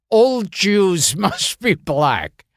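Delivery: bad Spanish accent, laughing through. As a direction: mangle shoes into Jews, Spanish accent. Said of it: "I say it in a Spanish accent".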